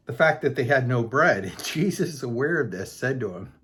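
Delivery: amused, laugh breaking into the reading; laughing while reading. Real, not acted. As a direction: read on through a real laugh. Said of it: "I'm sorry, I'm laughing".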